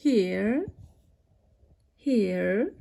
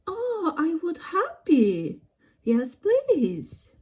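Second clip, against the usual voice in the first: higher-pitched pretend visitor voice; delighted guest; 4 semitones higher than usual. Guest accepts the host's offer of marshmallows, high and delighted. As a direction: play a pleased guest, pitched up.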